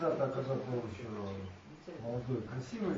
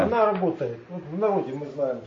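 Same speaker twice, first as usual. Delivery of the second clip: to someone hard of hearing; 6 dB louder, faster than usual. Real, not acted. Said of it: "Я плохо слышу".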